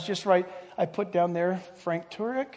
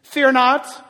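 voice of God; 3 semitones higher, 5 dB louder than usual. Shown as a demonstration. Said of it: "And God says".

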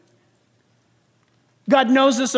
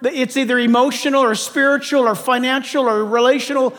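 desperate prayer; 4 semitones higher than usual. Pretend. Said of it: "You go to God and you say".

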